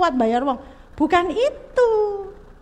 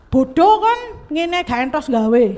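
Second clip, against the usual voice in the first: a mock harsh rebuke from the lecturer, louder; retold scolding lecturer; 4 dB louder than usual. The mother retells how the lecturer scolded her child, a mild mock rebuke. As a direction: snap out the insult like a contemptuous lecturer. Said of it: "Kata ibunya".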